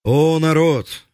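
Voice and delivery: slow, high rallying call to the crowd; fiery speech. Acted. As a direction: proclaim it to the people, slowly. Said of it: "пламенную речь".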